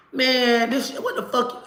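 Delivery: high, laughing what-the-hell; half laugh, half outrage; outraged disbelief. Retold or imitated. Jumping out at the police stop, laughing in outrage. Her nephew pulled over by police.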